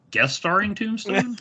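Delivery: high, incredulous question. Real, not acted. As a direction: repeat it in disbelief. Incredulous repeat of credit.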